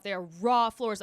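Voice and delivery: "raw" leaned on, each word deliberate; stress on raw. Real, not acted. Insisting to listeners the floors were raw, stressing "raw". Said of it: "I cannot stress this enough".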